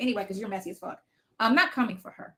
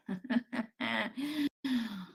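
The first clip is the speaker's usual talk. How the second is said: laugh; 6 dB quieter than usual. Real, not acted. Laughing at own slip after saying oops, soft chuckle. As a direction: chuckle softly to yourself.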